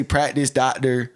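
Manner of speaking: "Practice, doctor" slowly, without the C sounds; southern pronunciation. Shown as a demonstration. Showing his picked-up speech, "Practice, doctor" without C. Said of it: "Like, I just say".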